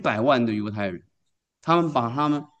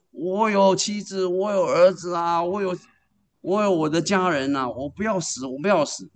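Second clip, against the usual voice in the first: retold crying plea; 5 semitones higher than usual. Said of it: "他在那边大哭啊，他在那边一直哭大叫".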